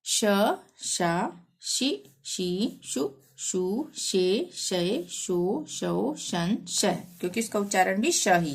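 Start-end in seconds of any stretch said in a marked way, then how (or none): 0.1-6.9 measured sing-song letter chanting; syllable drill recitation. Shown as a demonstration. Teacher reciting Hindi syllables for learners, sing-song drill. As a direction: recite each syllable separately with a lilt.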